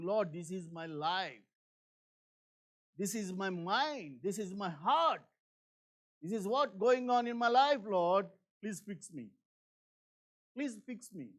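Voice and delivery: humble prayer. Pretend. Voicing a heartfelt prayer.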